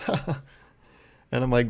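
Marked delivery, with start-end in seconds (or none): 0.1-0.4 imitated short laugh, soft and higher; soft, put-on "ha ha"; mock laugh. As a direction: mimic the professor's quick chuckle. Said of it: "And he goes".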